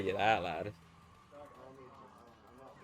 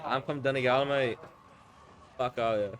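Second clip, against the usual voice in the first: Donegal impression lightly done as bad Australian; a half-hearted, badly faked Australian accent. Shown as a demonstration. Showing friend his Donegal impression, a hint of bad Australian accent. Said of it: "like, a really shit Australian accent".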